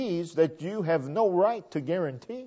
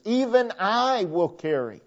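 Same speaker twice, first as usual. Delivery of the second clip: "Even I" raised and emphatic, then falling away; stress on I; 3 semitones higher than usual. Shown as a demonstration. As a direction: lean on "I" in "Even I". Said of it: "there's emphasis".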